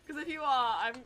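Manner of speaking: self-conscious imitated British accent. Streamer apologizing to a British viewer, put-on British accent. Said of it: "I'm probably totally butchering it".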